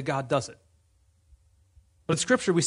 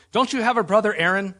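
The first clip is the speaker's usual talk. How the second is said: mildly angry retort, raised and louder; angry God; 4 semitones higher, 5 dB louder than usual. Retold or imitated. God to Moses after the fifth protest, mildly angry. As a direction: put a touch of anger into the question. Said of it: "God gets angry and says".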